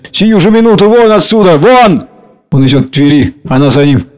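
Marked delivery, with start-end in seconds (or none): 0.1-2.0 losing her temper. A narrator's reading. Varya drives the clerk out, in a furious shout. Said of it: "Варя выходит из себя".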